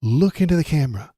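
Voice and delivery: loud, insistent call-out; demanding shout. Real, not acted. Host demanding Jake Tapper speak, shouting. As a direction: push him to say it.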